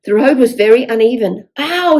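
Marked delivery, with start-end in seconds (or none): 1.6-2.0 mild mock ow. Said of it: "shouted Phil".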